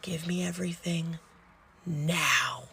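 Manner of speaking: controlled, softened nurse's order; stern demand. Retold or imitated. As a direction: give a restrained ultimatum. Nurse orders patient, retold.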